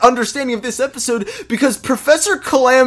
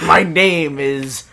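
slow villain reveal; 5 semitones lower, much slower than usual. Retold or imitated. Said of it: "She's like".

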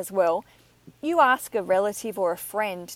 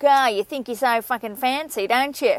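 broad Australian jeer, slightly raised; mock Australian locals; 3 semitones higher, 4 dB louder than usual. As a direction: imitate Australians scoffing back home. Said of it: "go home and people are like".

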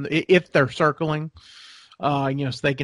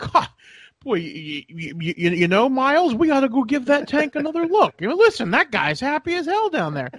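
voiced duck; 11 semitones higher than usual. Duck voiced talking to Miles.

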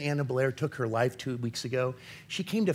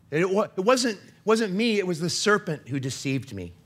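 high, louder defensive whine on wasn't me; the woman blaming the serpent, voice pushed higher and louder; defensive excuse, higher; 6 semitones higher, 3 dB louder than usual. Retold or imitated. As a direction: pass the blame in a pitched-up, loud protest. Eve's excuse in the garden.

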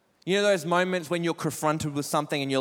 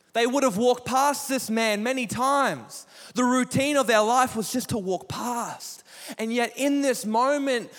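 louder, rising sermon build to the church; preaching at full force; 4 dB louder than usual. Acted. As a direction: preach it, driving each line harder.

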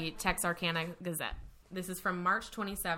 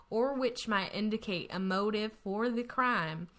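put-on Texas accent. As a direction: read it like a born Texan. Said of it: "Should I read this in a Texas, Texas accent?".

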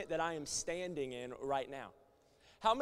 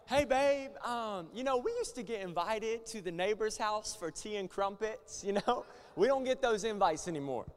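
wife complaining; 4 semitones higher, 4 dB louder than usual. Retold or imitated. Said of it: "I thought Noah was British".

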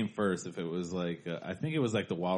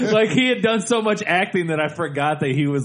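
laughing loudly; 9 semitones higher, 11 dB louder than usual. Real, not acted. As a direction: talk through big laughter. Laughing at own story.

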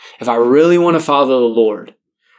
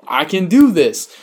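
giddy relief; 8 semitones higher, slower than usual. Retold or imitated. Relieved he can keep dating.

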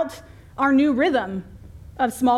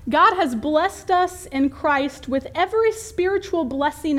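raised, lofty scripture reading; a touch of pulpit grandeur; 4 semitones higher than usual. Acted. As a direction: read holy words out to the congregation, pitched a little high. Reads scripture aloud in lofty style.

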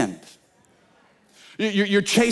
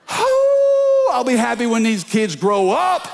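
exasperated parent; 4 semitones higher, slower than usual. Retold or imitated. Parent voiced, kids grow up.

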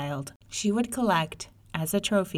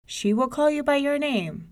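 mother voice; 7 semitones higher, 4 dB louder than usual. Acted. Mother answers May May.

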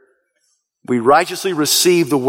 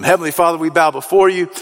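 closing prayer. Acted. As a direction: lead the congregation gently to God. Closing prayer over music.

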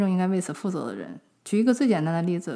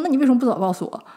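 retold angry retort; 5 semitones higher, 4 dB louder, faster than usual. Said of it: "我当时就特别火大".

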